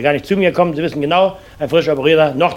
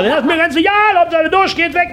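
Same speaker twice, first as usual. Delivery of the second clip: patient voice. Acted. Patient answers nurse.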